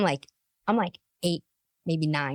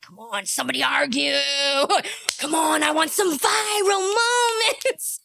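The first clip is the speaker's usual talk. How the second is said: eager mock cheer; 3 semitones higher than usual. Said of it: "Myron's like".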